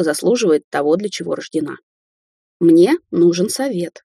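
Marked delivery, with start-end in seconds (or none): 2.6-4.0 slow, careful start; measured slow request; slowly. Acted. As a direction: begin slowly. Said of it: "медленно начал он".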